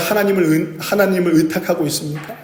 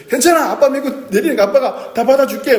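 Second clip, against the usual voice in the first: put-on higher, coaxing father soothing a scared child; reassuring father; 8 semitones higher than usual. Father reassuring his frightened child to jump, coaxing. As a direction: promise the child you'll catch it, gently urging.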